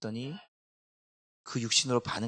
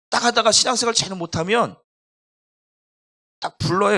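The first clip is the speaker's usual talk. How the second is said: loud, higher, stern telling; stern call; 9 semitones higher, 12 dB louder than usual. Retold or imitated. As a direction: bark it like a strict pastor. Pastor recalls calling people in. (엄하게 불러 세우는 목사의 목소리)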